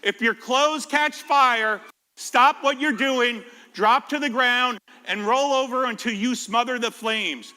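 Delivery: slow, deliberate safety instruction; slow teacher instruction; teacher instructing. Acted. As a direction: spell out each step to the class. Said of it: "said Mister Martin".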